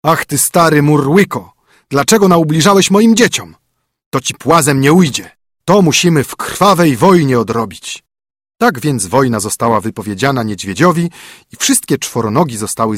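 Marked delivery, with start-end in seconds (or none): 0.0-8.0 higher, louder, furious declaration; angry king's challenge. A narrator's reading. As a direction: call the bear out to war. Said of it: "zawołał".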